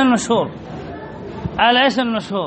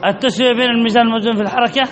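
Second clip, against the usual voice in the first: fast rote recitation; faster than usual. Shown as a demonstration. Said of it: "احفظوا القاعدة".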